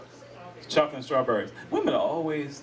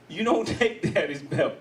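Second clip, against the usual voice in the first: stern words broken by laughter; laughing through it; 2 semitones higher than usual. Retold or imitated. Dad scolding his toddler over the belt, laughing. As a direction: try to scold his daughter but keep laughing. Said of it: "I'm laughing while I'm saying it".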